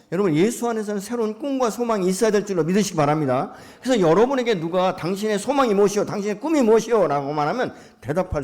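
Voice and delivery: loud, high, ringing exhortation to the congregation; preaching at full force. Acted. Pastor rousing his congregation to name their dreams, full-force preaching. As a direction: call out the challenge with full preacher's fire.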